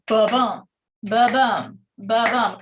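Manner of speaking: "ba-bum" as a heartbeat, weight on BUM; short ba, heavier bum in "ba-bum"; iambic beat. Shown as a demonstration. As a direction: thump out "ba-bum" in even pulses. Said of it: "we call that iambic meter".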